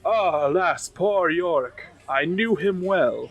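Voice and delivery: mock-tragic, slow and drawn out; a lightly voiced tragic actor mourning; hammed-up Shakespearean lament. Player hams up a Hamlet line to the table, mock-tragic and slow. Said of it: "the best performance of your life".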